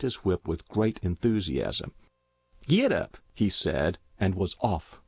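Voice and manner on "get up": giddy-up shout; calling to horse. A narrator's reading. Dodge urges his horse.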